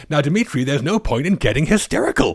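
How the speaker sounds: mild imitation of a breaking voice; Muffley. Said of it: "it's the way his voice breaks".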